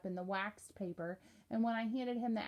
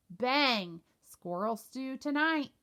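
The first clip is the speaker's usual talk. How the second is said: loud playful bang; 3 semitones higher, 6 dB louder, slower than usual. Acted. Cody mimes shooting, louder.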